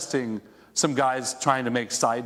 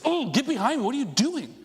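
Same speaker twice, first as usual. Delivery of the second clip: exasperated snap; 10 semitones higher than usual. Retold or imitated. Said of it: "kinda loses it".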